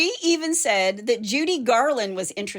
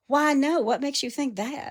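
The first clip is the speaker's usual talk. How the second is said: lightly put-on drawl; retold drawl; 4 semitones higher than usual. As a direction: give the quote a coy drawl. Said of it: "she drawled, quote".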